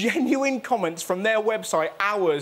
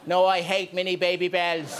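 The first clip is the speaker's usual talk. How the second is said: put-on mild Irish accent, cheese for Jesus; deadpan in a light Irish accent; 4 semitones lower than usual. Irish resident dismisses the evangelist, light Irish accent. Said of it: "with the Irish accent".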